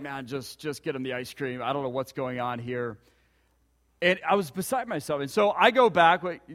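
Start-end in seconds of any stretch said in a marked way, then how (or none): 0.0-3.0 low, much softer exasperated mutter under the breath; muttered aside. Retold or imitated. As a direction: mutter it quietly, baffled and fed up. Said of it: "I'm just like".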